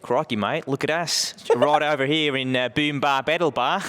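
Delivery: Aussie twang, cheerful host; broad Aussie presenter; Australian accent. Pretend. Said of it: "let's do Australian".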